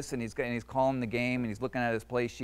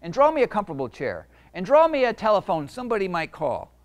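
high, loud monster demand; growling monster; 7 semitones higher, 6 dB louder than usual. Acted. Monster growling orders at Jeremy, loud and bossy. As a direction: bark the order like a spoiled monster. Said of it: "the monster growled".

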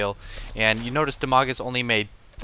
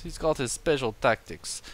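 mock Russian accent; 3 semitones higher than usual. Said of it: "That's Russian".

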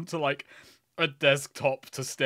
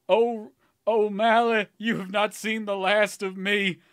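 barbarian; 4 semitones higher, 4 dB louder than usual. Acted. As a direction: shout a barbarian's revenge vow. Lydian vows revenge, shaking fists.

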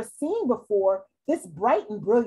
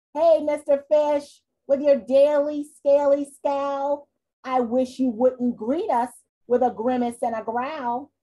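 louder, gently scolding jellyfish; chiding jellyfish; 3 dB louder than usual. Acted. Jellyfish to the scowling fish, louder and chiding. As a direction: nudge him to stop scowling.

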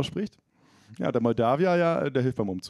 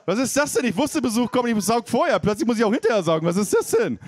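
indignant outrage; 7 semitones higher, 3 dB louder than usual. Acted.

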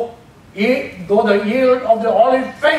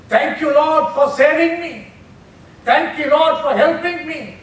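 a touch of thankful prayer, pitched higher; grateful prayer; 5 semitones higher than usual. Shown as a demonstration. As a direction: thank God as if just saved, lightly. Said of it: "that is thanksgiving".

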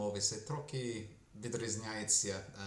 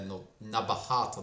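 ordinary talk, nothing marked

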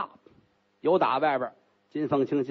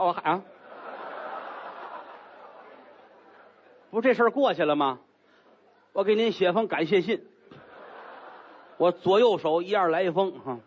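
chuckling, cheeky joke; sheepish laugh; 3 semitones higher than usual. Acted. Relieved Gao jokes with her, laughing.

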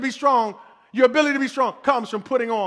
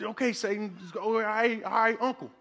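mock surrender; 8 dB quieter than usual. Mocking cowering before Satan.

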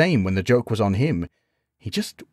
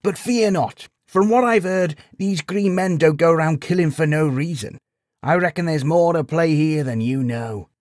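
higher, lifting, hopeful sage; reassuring; 8 semitones higher than usual. A narrator's reading. Sage reassures the knight about green men, encouraging. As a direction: lift his spirits, lightly in character.

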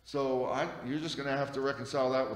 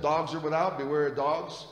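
forceful scripture quote; 3 semitones higher, 6 dB louder than usual. Acted. Preacher quoting scripture forcefully.

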